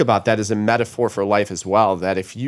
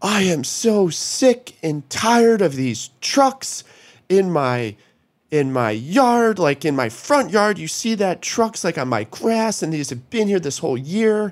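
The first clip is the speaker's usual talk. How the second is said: fed-up, high-pitched, furious screaming; 9 semitones higher than usual. Retelling a man who walked up to confront the speaker: imitating him screaming. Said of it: "And he's screaming at me".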